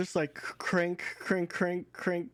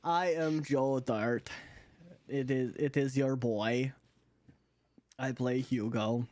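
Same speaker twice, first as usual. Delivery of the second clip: funny new voice. Acted. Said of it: "This might be his new voice".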